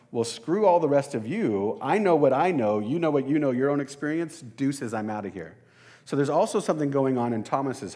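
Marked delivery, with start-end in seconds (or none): 0.1-5.6 a touch louder, dismissive brush-off; proud defiant ego. Retold or imitated. Preacher voicing his ego walking out, mildly defiant. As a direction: toss them off like your pride is talking. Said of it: "My ego kicks in and says".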